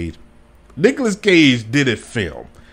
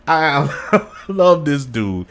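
laughing fondly; 2 semitones higher, much slower than usual. Real, not acted. Laughing fondness for Cage.

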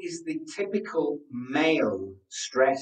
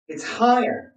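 "higher" said in a raised, thin chest voice; 5 semitones higher than usual. Shown as a demonstration. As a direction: lift "higher" up, breath high in the chest. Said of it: "I've lost all of those lower notes".

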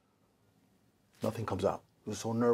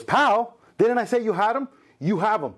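Gleason reassuring; 7 semitones higher than usual. Retold or imitated. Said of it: "He goes".

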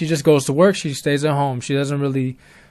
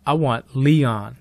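mysterious caller voice; slower than usual. Retold or imitated. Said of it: "The voice goes".

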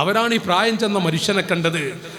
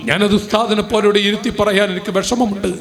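loud, rousing sermon climax; preacher moving the congregation, loud and rousing; impassioned preaching; 4 dB louder than usual. Acted. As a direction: preach it to the crowd full force. Preaching at full force.

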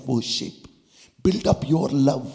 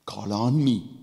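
voice of the Lord; 4 dB louder than usual. Acted. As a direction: speak God's promise tenderly. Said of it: "the Lord says".

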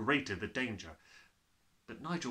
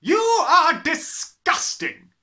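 very slow roar, much higher and louder; bellowing; 16 dB louder, much slower than usual. A narrator's reading. Headmistress bellows at the messy boy, very slow roar. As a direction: roar your disgust. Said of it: "the Trunchbull bellowed".

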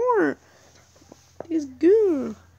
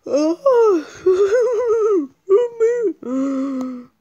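1 laughing groan; much slower than usual. Real, not acted.

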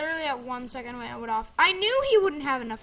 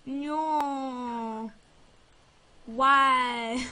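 slow, lightly voiced sulky kid; a hint of a pouting child, drawn out; slower than usual. Child sulking to mommy about a birthday gift, lightly pouting. Continues the disappointed child act.

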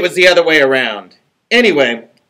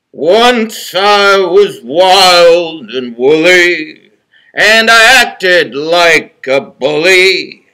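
very slow, louder, recited plea; slow pleading rhyme; 7 dB louder, much slower than usual. Acted. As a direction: recite the apology like a begging verse. Wolf's rhymed apology.

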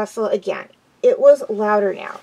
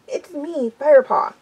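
high urgent call, louder on the name; acted yell; 5 semitones higher, 3 dB louder than usual. Firepaw struggling free from his friend, yelling. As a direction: call out to be recognized. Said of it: "he yelled".

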